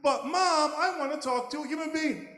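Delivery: high, eager little puppy begging; pleading puppy. Acted. Little puppy begging his mom to meet humans, high and pleading. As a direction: whine it up high like a small pup asking permission.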